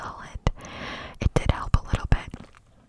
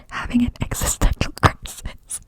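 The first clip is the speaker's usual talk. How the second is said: whispered through real giggles; breaking into laughter mid-phrase; giggling at her own panic; laughing whisper; 4 dB louder than usual. Real, not acted. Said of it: "I'm laughing now 'cause it's so funny".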